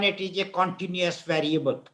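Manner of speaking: ordinary talk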